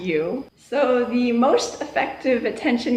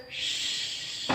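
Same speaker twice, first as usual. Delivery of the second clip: soft unvoiced shh; imitating a shush; 16 dB quieter than usual. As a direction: hush like the whole class.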